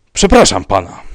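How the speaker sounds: loud, sharp, offended interjection. A narrator's reading. Rybka losing patience with the commissioner, sharp. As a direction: cut in sharply with rising anger. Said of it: "powiedział ostro".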